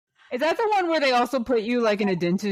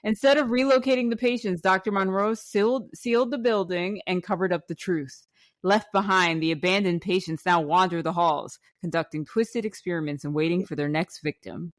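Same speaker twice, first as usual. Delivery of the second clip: measured storyteller's read, settling lower; blurb read-aloud; 3 semitones lower than usual. Acted. Host reading a haunted attraction's backstory to guests, measured narration. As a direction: read out the spooky backstory evenly.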